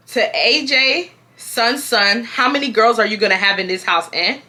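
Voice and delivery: put-on Haitian mother accent. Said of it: "The mama said that".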